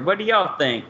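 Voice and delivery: put-on Texas accent. Shown as a demonstration. Host asks the co-hosts about the plan, Texas accent. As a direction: ask it like a Texan. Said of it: "my Texas accent".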